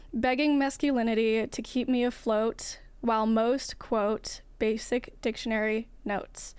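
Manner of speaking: measured poem recital; poetry reading. Acted. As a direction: read the poem with weight. Reads a poem aloud.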